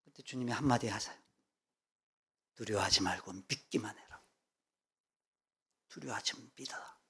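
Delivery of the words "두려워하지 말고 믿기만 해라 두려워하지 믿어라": gentle reassurance. Acted. Jesus voiced, soft reassurance.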